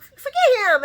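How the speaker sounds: high, loud laughing cry of forget him; laughing shout. Retold or imitated. Sky laughing as she tells Lucy to forget him. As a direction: yell it through a laugh. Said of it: "Sky's like".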